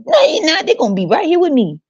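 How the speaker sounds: high whiny mock parent wail; mock-crying possessive parent; clingy parent. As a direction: whimper it like a parent who won't let go.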